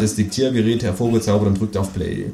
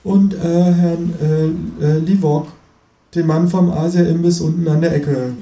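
raised, faltering presenter voice; TV host voice; 5 semitones higher than usual. Acted. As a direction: stumble through the guest name. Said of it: "fährt die Frau fort".

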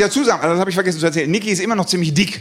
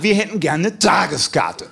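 slower, emphatic macho demand; macho insistence; slower than usual. Retold or imitated. Customers challenged by the ticket seller's offer, macho insistence. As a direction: insist like a challenged tough guy. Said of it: "testosterontechnisch etwas herausgefordert und sagten".

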